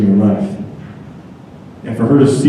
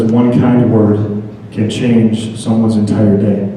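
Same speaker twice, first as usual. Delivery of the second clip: slow, weighty reading of the card; slower than usual. Shown as a demonstration. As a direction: read it out slowly, letting each word land. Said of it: "And it says".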